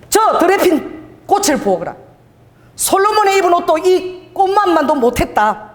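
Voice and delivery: unhurried, as Jesus telling the crowd; voicing Jesus. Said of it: "예수께서 말씀하실 때".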